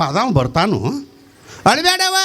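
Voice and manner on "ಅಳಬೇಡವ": mock tearful consoling. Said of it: "ಹಂಗ ಬಾಯಿಲೆ ಹೇಳು".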